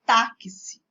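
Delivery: "Táxi" loud, the X split into K plus S. Shown as a demonstration. Teacher explains spelling versus speech, says "Táxi" loudly with a clear KS. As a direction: punch out "Táxi" as TÁ-ki-si. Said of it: "você pronuncia com som de K S".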